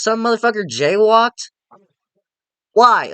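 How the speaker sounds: can't believe this nonsense, say it out loud; incredulous rant. Real, not acted. Incredulous about the twist.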